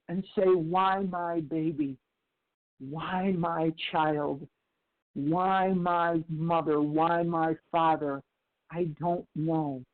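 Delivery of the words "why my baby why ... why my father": slow, low, pleading lament; grieving plea. Retold or imitated. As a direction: ask each why like a broken parent on their knees. Grieving parents' prayer through tears.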